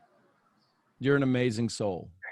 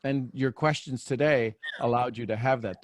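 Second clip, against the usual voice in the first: usual speaking voice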